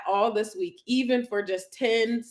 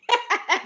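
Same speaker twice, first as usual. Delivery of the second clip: short laugh; 11 semitones higher, 4 dB louder than usual. Real, not acted. Laughing at emoji mix-up.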